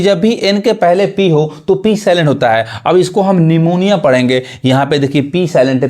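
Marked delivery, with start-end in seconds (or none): 3.4-4.0 निमोनिया said as "ni-mo-ni-ya"; निमोनिया with no p sound; silent P. Shown as a demonstration. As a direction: start निमोनिया on n. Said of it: "पी नहीं पढ़ाएगा".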